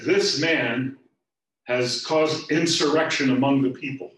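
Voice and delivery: loud, high charge, slowing on key words; loud accusation. Acted. Chief priests accusing Jesus to Pilate, loud and indignant. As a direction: denounce him to the governor.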